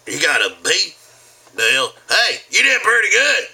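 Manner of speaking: loud, rising goofy dad praise; hammed-up dad cheering over a grade; embarrassing dad. Embarrassing his son at school, loud goofy dad.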